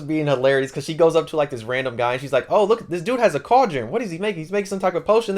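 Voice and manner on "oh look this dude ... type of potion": high-pitched excited retelling; playful imitation of gawking aloud; excited nosy onlooker. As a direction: act out a curious busybody spotting something, pitched up. Acting out Aqua excitedly spotting a cauldron.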